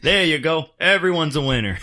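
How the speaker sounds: high, loud mock cheery voice; cheerful Canadian guy. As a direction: cheer everyone off like a game host. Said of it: "the guy's like".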